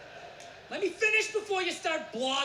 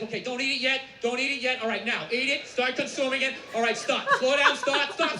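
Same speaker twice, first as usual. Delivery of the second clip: bossy personal chef; 4 dB louder than usual. Acted. Personal chef coaching a dieter.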